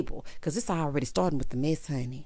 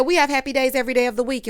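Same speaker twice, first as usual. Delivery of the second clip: heated comeback; 5 semitones higher, 5 dB louder, faster than usual. Retold or imitated. Ayan snaps back at the table.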